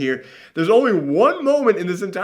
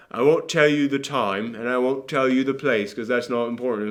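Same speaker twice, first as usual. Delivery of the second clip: lower, lightly done British narrator; British accent; 3 semitones lower, 3 dB quieter than usual. Retold or imitated. Quoting the film's opening on time and place, British accent. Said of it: "I'm still doing the British accent".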